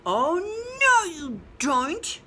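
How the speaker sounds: chick's challenge. Acted. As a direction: stop the fox with a mock-stern cry. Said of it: "he said".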